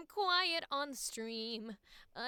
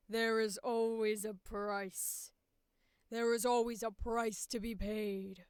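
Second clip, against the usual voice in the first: a chest-voice villain, slower on the price line; diaphragm voice. Shown as a demonstration. Actor trying the second, traditional voice. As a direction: speak from the diaphragm. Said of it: "Bring it down".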